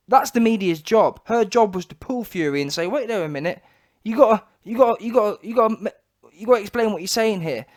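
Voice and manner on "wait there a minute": ordinary delivery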